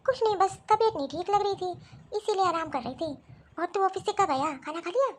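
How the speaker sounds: put-on an ill old woman answering her son; ailing old mother. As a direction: talk like a frail mother resting in bed.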